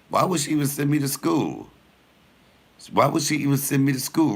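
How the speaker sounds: outraged disbelief. Retold or imitated. Outraged retold reaction.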